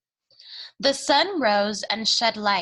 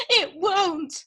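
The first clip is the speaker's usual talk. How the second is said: despairing; 8 semitones higher than usual. Acted. Cook despairing to Louise.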